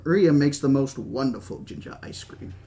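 lightly voiced old British host; a hint of a genial British gentleman; Hammond. Host urging his guest at dinner, lightly voiced British old man.

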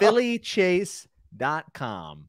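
high, very slow, drawn-out announcement; mock website voice. Podcaster playing Philip's website, stretched mock announcement. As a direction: intone it like an old computer welcome.

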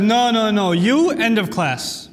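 lightly voiced teacher issuing a warning; teacher shutting down a misbehaving child; a hint of stern schoolteacher. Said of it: "and the teacher says".

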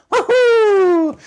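hoge, luide juichkreet woohoo; Mario woohoo. Shown as a demonstration.

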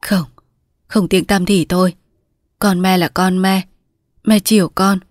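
mother giving in, mildly plaintive; moaning mother. Acted. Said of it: "cụ ghì con vào mình rên rỉ".

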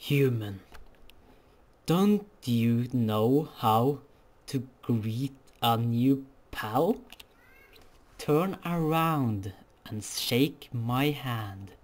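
low, slow laid-back drawl; low slow skeleton drawl; lazy skeleton voice. Acted.

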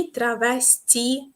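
"травестія" slowly, syllable by syllable, stressing ТІ; stress on late syllable. Shown as a demonstration. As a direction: draw out "травестія" and land on ТІ. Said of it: "Наголошуємо аж ось цю буквочку".

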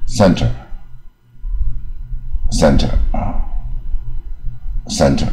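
"center" with tongue half curled; teacher's careful half-curled "center". Shown as a demonstration. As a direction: model "center" carefully in two syllables. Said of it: "它也是卷舌卷一半".

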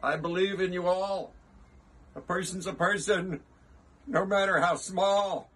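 high, earnest rallying call. A narrator's reading. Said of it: "he managed to call to the mayor".

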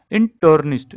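इंटर्निस्ट said as "in-tur-nist" with a clear "tur"; correct pronunciation. Shown as a demonstration. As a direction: split इंटर्निस्ट into "in" then "turn" then "ist". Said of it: "इंटर्निस्ट देखना".

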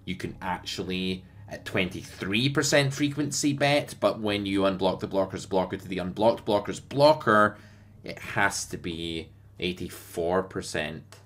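lightly voiced nerdy solver copier; nerdy solver guy. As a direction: play a smug, nerdy solver fanboy. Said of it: "I'm gonna do an impersonation now of the guy that you don't wanna be".

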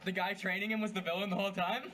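laughing. Real, not acted. Spoiler through laughter.

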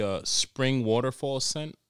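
mock ad voice. Reading out air freshener scents.

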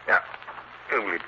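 low, sneering villain muttering to himself; gloating villain. Acted. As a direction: gloat over the meddling fool, voice dropped low. Villain gloating alone in his house.

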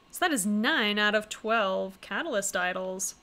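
ordinary talk

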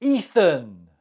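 "Ethan" as EE-thun, long first vowel; model pronunciation. Shown as a demonstration. Teacher gives the last answer of the round, "Ethan" said as EE-thun. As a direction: pronounce "Ethan" clearly, EE then a light "thun". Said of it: "How do you say this name?".

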